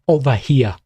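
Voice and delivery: over here, Boston accent, dropped r. Shown as a demonstration. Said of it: "with the Boston accent".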